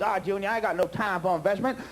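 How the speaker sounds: lightly voiced lecherous old rich man; a hint of a crusty old oil man leering at his bride; old tycoon. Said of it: "Oh, you wildly overfed Texas flower".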